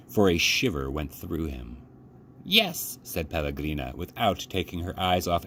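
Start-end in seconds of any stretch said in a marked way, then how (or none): 2.4-3.0 put-on old woman. A narrator's reading. Grandmother replies slowly.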